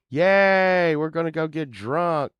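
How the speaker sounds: high, loud party whoop; excited cheer. Retold or imitated. Band mates planning a drunken night out, excited cheer.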